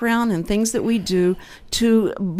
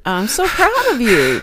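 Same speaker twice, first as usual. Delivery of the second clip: gushing praise; 2 semitones higher, 3 dB louder, slower than usual. Pretend. Gushing mock praise for fixed drip.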